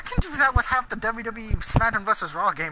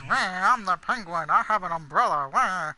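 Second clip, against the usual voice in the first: penguin voice. Retold or imitated. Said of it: "that's my penguin voice".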